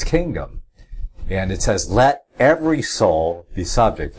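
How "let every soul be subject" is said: "every" given firm weight; stress on "every". Shown as a demonstration. Pointing listeners to the key word, stress on "every". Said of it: "I think that's the key word".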